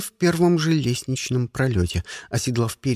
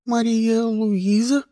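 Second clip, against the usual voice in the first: sobbing out her name; 8 semitones higher, slower than usual. A narrator's reading. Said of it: "обалденно всхлипнула она".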